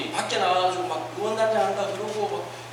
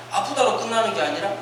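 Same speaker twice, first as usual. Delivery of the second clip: normal talking voice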